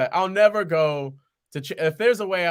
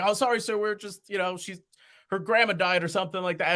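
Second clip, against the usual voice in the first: innocent excuse; 5 semitones higher than usual. Retold or imitated. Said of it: "I'm like".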